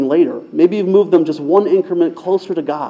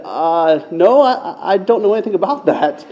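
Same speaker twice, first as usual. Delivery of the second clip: hesitant; 3 semitones higher than usual. Retold or imitated. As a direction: falter lightly, as if puzzled by the question. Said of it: "she hesitantly said".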